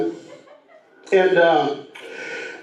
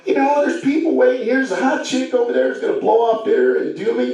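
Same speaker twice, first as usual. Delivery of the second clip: flustered pleading; 10 semitones higher than usual. Retold or imitated. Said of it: "I'm kinda just flustered".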